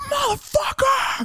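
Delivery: put-on, very high, furious, pissed-off delivery. Retelling hearing his dad outside, imitating dad cursing angrily. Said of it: "Like he was pissed".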